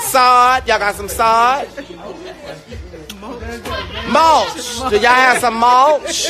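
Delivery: laughing joke order. Pretend. Mock ordering mulch, laughing.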